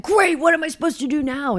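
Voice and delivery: high mock whine; mock annoyed racer. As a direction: parody the rider's huff. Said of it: "he's like".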